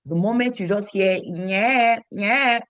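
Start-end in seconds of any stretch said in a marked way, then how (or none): 1.2-2.6 mock infant wail, raised voice; imitated baby cry.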